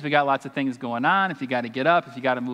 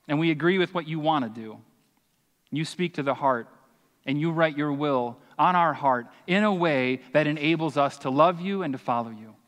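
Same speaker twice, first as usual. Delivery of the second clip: earnest, steady prayer voice; heartfelt prayer before the sermon; pastoral prayer. Acted. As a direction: pray over the church sincerely. Leads the closing prayer.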